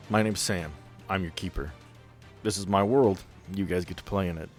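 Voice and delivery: ordinary delivery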